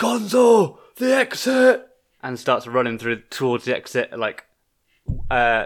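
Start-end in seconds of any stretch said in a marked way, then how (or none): 0.0-1.9 shouting in a character voice. Playing a character fleeing a room, shouting to a companion: shouting in character. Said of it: "he shouts".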